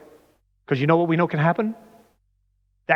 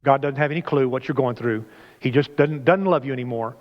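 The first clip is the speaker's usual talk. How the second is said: mock self-pity; 5 semitones lower than usual. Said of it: "I've said that to myself before".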